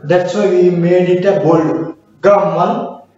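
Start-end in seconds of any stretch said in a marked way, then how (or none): 2.2-3.1 "Gammal" with GAMM pressed, long M; stress on GAMM. Shown as a demonstration. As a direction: lean on the first syllable of "Gammal". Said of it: "G A M M is the stressed word".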